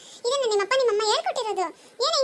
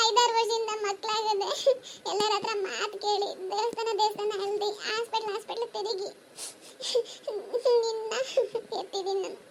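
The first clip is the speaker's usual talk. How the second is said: tearful pleading; 4 dB quieter than usual. Acted. Mother tearfully begs son.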